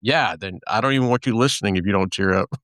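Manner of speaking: fast, laughing through the words. Real, not acted. Host to guest about crying listeners, laughing. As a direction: joke it out while laughing.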